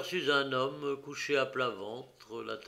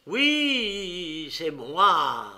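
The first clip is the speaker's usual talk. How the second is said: much louder and higher, furious; enraged; 5 semitones higher, 10 dB louder, much slower than usual. Acted. Prisoner cuts off the detective, enraged shout. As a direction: spit it out in a rage. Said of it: "un véritable accès de rage".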